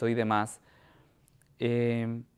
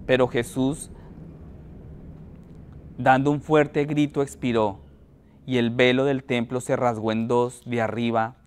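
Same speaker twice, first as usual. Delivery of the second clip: measured, deliberate Bible reading aloud; solemn public reading with pauses between phrases; scripture reading. A narrator's reading. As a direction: read the passage out to a congregation, phrase by phrase. Reads Scripture aloud to congregation.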